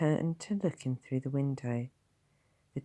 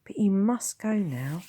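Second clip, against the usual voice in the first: whispered nervous nurse; timid whisper; 8 semitones higher, 5 dB louder than usual. Acted. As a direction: push the words out in a whisper.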